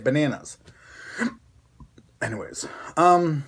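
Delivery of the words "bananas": "bananas" with a short A as in "cat"; local "bananas" pronunciation. Shown as a demonstration. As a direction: show how to say "bananas": ba-NAN-as. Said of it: "that's how you say it".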